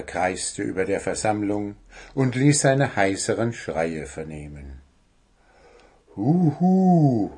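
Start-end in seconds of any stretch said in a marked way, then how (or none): 6.1-7.3 high, drawn-out owl hoot; little owl calling out. A narrator's reading. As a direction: hoot it out, each call rising then falling. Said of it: "rief Willi, der kleine Kauz".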